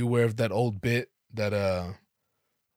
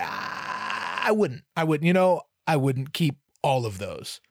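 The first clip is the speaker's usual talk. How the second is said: flustered polite refusal; 3 semitones higher, 3 dB louder than usual. Retold or imitated. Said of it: "I'm like".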